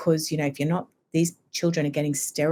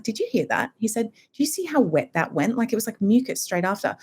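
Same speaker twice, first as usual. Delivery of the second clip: lightly imitated amazement, higher pitch; amazed husband; 5 semitones higher than usual. Husband telling his wife about the wet cough, mildly amazed. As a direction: retell it a bit higher, mildly astonished.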